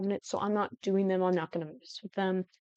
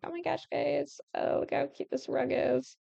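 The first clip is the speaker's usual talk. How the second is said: mock gushing; 4 semitones higher than usual. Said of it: "I was gonna try and be like".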